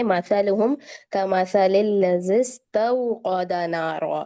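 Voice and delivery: slow measured Arabic recitation; Quran recitation. Shown as a demonstration. Teacher recites the verse for students, slow and measured. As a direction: recite the verse slowly and clearly. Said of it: "दूसरी आयत में देखें".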